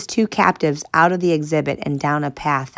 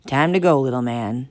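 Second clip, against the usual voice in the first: deep throaty voice. Acted. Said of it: "in a deep, throaty voice".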